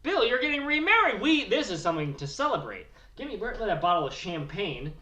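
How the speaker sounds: rowdy hillbilly Bill bragging about his wedding news; redneck Bill Morgan. Acted. Character Bill continues.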